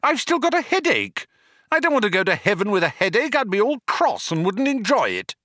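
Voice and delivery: high, gabbled petulant protest; yelled. A narrator's reading. Arthur protesting his execution, yelling. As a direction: start very high and rush on. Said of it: "he yelled".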